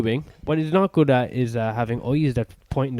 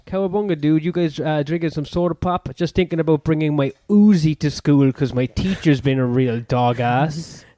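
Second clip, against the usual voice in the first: put-on American dude voice; American accent. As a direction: play an American teen slacker. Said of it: "How was my accent?".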